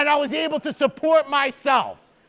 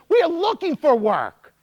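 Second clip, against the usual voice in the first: put-on older lady; 4 semitones higher than usual. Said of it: "she's like".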